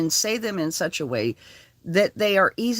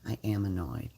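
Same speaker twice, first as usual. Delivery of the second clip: annoyed; 8 semitones lower, 9 dB quieter than usual. Real, not acted. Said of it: "But I'm annoyed".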